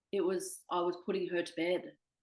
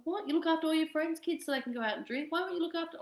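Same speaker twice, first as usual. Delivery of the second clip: outraged disbelief; 12 semitones higher than usual. Retold or imitated. Retelling her fight with her twin sister, high and outraged. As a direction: voice jumps up in outrage.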